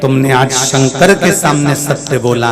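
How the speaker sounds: a hint of a divine proclamation; voice from the sky. Voice from the Shivling declares Vishnu's new name, a lightly voiced divine proclamation. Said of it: "शिवलिंग में से आकाशवाणी हो गई".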